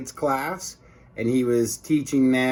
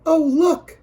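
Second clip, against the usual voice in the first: high, eager lunch lady gushing; 6 dB louder than usual. Acted. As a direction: squeal it like a delighted lunch lady. Lunch lady voiced in story.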